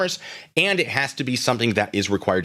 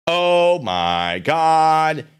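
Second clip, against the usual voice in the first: mock disbelief; 5 semitones higher, 4 dB louder, much slower than usual.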